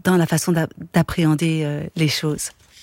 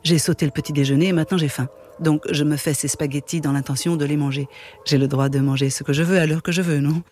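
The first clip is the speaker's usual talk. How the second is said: steady, even reading of a novel; calm literary narration; story narration; 3 semitones lower than usual. A narrator's reading. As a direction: read the chapter aloud, unhurried. Reads a Murakami novel aloud.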